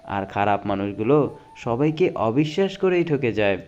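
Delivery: dramatic reading of life quotes; motivational quote recitation. Acted. Reading life advice to viewers, earnest dramatic recitation. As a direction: recite each saying like a moving lesson.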